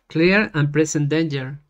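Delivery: slow, deliberate dictation; slow dictation in Spanish-accented English; dictating to computer. Shown as a demonstration. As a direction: read it out slowly for voice typing. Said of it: "le voy a dictar a la computadora".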